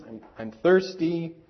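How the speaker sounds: put-on child's mildly whiny complaint; lightly imitated whining; slight whine. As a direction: imitate a kid whining a little to a parent. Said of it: "a bit of a whine in your voice".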